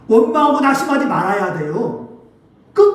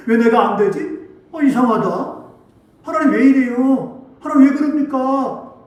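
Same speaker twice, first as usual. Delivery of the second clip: mildly aggrieved questioning, slightly raised; complaining; 3 semitones higher than usual. Acted. Preacher voicing a believer who questions God after failing, mildly complaining. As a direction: voice a puzzled grumble at God. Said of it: "원망하고 불평하기 시작합니다".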